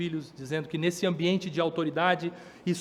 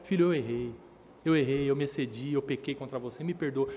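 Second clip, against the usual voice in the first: humble apology; 4 semitones lower than usual. Retold or imitated. Parent voiced apologizing to child.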